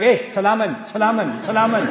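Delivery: brusque dismissive salaman; wrong way to say salam. Retold or imitated. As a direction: toss salaman off to shut them up. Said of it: "Not like that".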